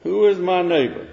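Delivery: high, loud searching questions; preaching at full force. Acted. Preacher challenging listeners, loud rising sermon voice. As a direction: press the questions on the congregation.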